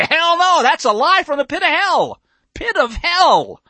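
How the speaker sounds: loud, high preacher's outburst; fiery denunciation. Real, not acted. Preacher denouncing what schools teach, loud and fiery. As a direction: thunder it out, slowing on the repeat.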